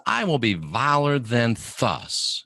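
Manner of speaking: proud king. Retold or imitated. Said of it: "He says".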